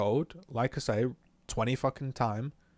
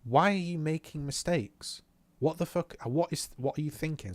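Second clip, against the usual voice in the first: retold exasperated questioning; 4 semitones higher than usual. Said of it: "Instead, it's like this".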